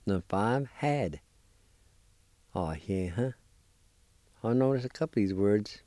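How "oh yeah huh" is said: Oh, yeah, huh said as one Cherokee word, ah-eh-huh; teacher sounding out Oh, yeah, huh; Cherokee pronunciation. Shown as a demonstration. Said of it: "I'll pronounce these words one more time".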